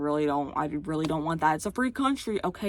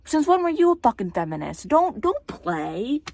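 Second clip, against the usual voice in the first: loud, raised challenge; yelling; 6 semitones higher, 7 dB louder than usual. Real, not acted. Challenging a fake feminist, yelling. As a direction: call them out, loud and high. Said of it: "I just had to yell at myself".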